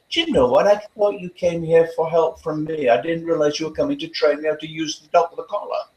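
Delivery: sugary, sarcastic sweetness; mock sweet. Trainer teasing his resistant client, sweetly sarcastic. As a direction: sweetly tease her, tongue in cheek. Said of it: "I looked at her very sweetly".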